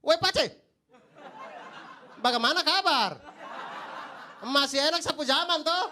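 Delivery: loud, slow eastern Indonesian greeting; eastern Indonesian accent. Retold or imitated. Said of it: "dengan tulisan".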